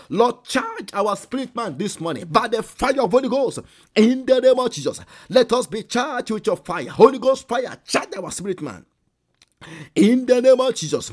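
loud, high preaching at full force; fiery prayer. Acted. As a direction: cry out the prayer over the congregation. Prays aloud at full force.

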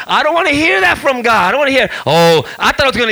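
high mock-tantrum protest; re-enacted upset complaint; whining like a baby. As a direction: whine it, imitating a crybaby. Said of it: "I started crying like a baby".

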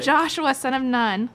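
hammed-up scripture reading; dramatic reading. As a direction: proclaim it like a dramatic Bible reading. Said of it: "you gotta be dramatic".

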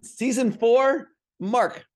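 slow, loud mock-dramatic call. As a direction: stretch it out grandly.

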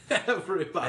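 high, loud ad-read voice; hammed-up ad voice. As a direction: belt it like a TV ad. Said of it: "Where it's like".

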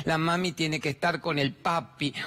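lightly voiced small kid, slow; childish voice. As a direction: mimic a small child pleading slowly. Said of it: "nenes de tres, cinco, siete años".

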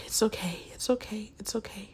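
imitating a soft, fading self-soothing murmur; consoling herself. Imitating a dumped contestant after he leaves, consoling herself. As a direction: repeat it softly to soothe yourself. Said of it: "she's consoling herself".

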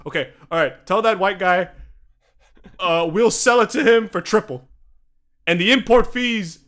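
hammed-up scheming boss; mock boss. Egyptian boss telling clerk to charge the American triple, mock. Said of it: "It's like".

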